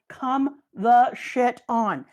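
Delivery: slow, drawn-out exasperation; exasperated. Real, not acted. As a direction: stretch it out in disbelief. Exasperated rant about Dofi.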